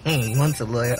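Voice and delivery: laughing. Acted. Laughing at her reply.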